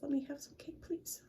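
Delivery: soft whispered little fish; a small fish whispering; timid whisper. Acted. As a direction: ask shyly in a whisper. Shy fish asks.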